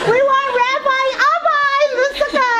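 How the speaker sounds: very high, loud sing-out; hammed-up high-pitched cheer; mock clamoring. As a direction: imitate an eager crowd calling out. Acted calling out for Rabbi Abba.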